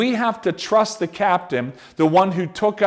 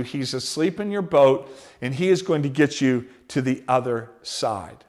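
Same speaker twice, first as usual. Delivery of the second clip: softer, sincere pastoral comfort; tender reassurance; 2 semitones lower, 3 dB quieter than usual. Acted. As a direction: speak gently to the hurting. Speaking to the heart softly.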